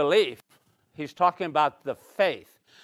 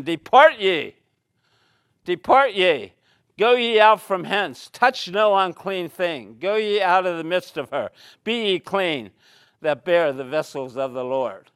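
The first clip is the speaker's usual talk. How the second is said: loud proclamation; 2 semitones higher, 6 dB louder than usual. Acted. Preacher declaiming Isaiah's command.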